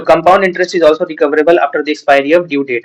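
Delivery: dictating the law word by word; slow statute reading. Acted. Teacher reads the Gratuity Act to students, slow dictation. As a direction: read the legal text out slowly and deliberately.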